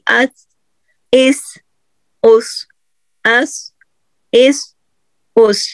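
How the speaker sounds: اس with the tongue tip on the edges of the upper front teeth; isolated letter demo. Shown as a demonstration. Teacher drilling اس for students to copy, clean and held. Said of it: "آپ صحیح سا کی آواز پڑھیں گی".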